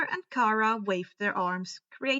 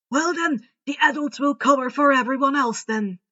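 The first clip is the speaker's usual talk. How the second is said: lightly voiced old wizard, a touch louder; kindly headmaster; 2 semitones higher, 8 dB louder than usual. A narrator's reading. Headmaster sending students home, lightly voiced and louder. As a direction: give the orders gently but firmly. Dumbledore instructs adults.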